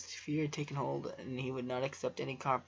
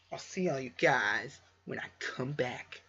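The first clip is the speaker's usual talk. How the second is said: slow drawn-out outro. Shown as a demonstration. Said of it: "final outro take".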